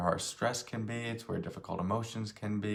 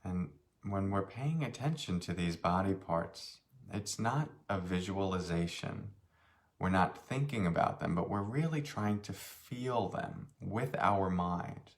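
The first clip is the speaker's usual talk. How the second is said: unhurried meditation guide, long pauses between phrases; slightly softened voice, leaving space after each phrase; guided meditation. Real, not acted. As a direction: guide them gently through a body scan. Leads a meditation.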